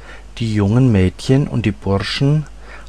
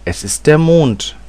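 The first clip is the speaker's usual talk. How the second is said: higher-pitched reveal at a normal pace; quick addition; 6 semitones higher than usual. A narrator's reading. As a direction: add it promptly, lifting the pitch. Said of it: "setzte sie rasch hinzu".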